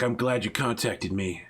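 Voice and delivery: lightly disguise your voice with a put-on accent; Ghost Score. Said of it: "lowering his tone and faking an accent".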